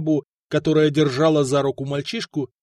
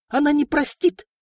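shrill cry; 12 semitones higher than usual. Acted. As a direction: shriek the warning. Princess shrieking refusal continues.

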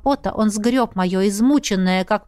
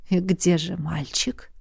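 lower, softer, slow ironic question; teasing king; 4 semitones lower, 5 dB quieter than usual. A narrator's reading. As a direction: toy with her. King teases.

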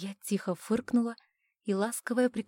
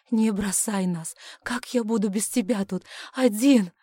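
desperate plea; 6 dB louder than usual. Acted. Husband begging dying wife.

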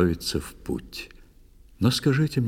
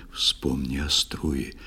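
a husband's quiet aside to his wife, lower and soft; hushed warning; 5 semitones lower, 6 dB quieter than usual. A narrator's reading. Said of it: "шепнул он".

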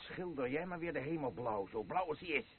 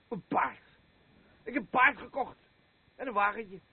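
higher, louder proud announcement; proud excitement; 9 semitones higher, 6 dB louder than usual. Acted. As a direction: crow about the horse he bought.

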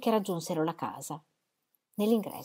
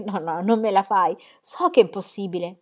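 laughing disbelief; 5 dB louder than usual. Acted. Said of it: "assolutamente incredula".

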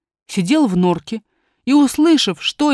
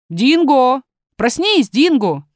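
rousing a sleeper with raised voice; storybook god calling his dog awake; 3 semitones higher, 4 dB louder, slower than usual. Acted. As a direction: call out loudly, stretching the name.

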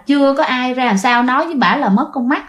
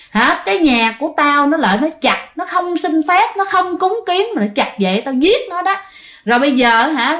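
higher, threatening spirit voice; tree demon's demand; 4 semitones higher than usual. Retold or imitated. Vengeful tree spirit demanding offerings from family, higher threatening voice. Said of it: "nói rằng á hả".

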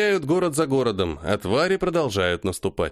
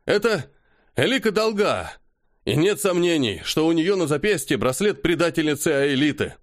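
excited reveal; 5 semitones higher than usual. Acted. Nervous messenger announcing.

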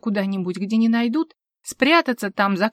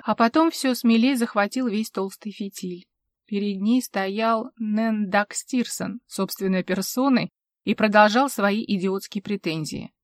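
plain reading voice

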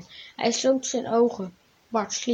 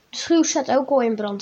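ordinary delivery

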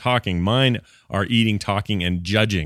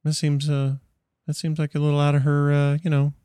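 higher-pitched, disapproving in-law voice; politely disapprove, pitched up; judgmental mother-in-law; 5 semitones higher than usual. Acted. Mother-in-law judging what the granddaughter reads, primly disapproving.

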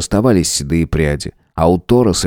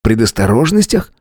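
"Предосторожностях" asked back with clear s sounds, rising; surprised; 3 semitones higher than usual. Acted. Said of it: "удивлённо переспросил я".

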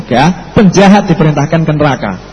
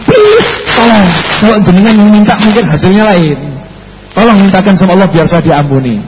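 pleading. Acted. Sinner begging cleric for help.

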